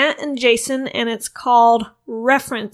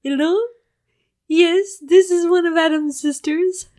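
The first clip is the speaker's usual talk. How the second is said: put-on British accent; 6 semitones higher than usual. Roommate poses as Adam's sister, higher mock British accent. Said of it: "why are you talking in a British accent".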